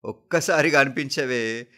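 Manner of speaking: anguished pleading, rising to a loud cry; desperate raving. A narrator's reading. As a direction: beg your mother in grief. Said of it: "అంటూ పలవరిస్తున్నాడు".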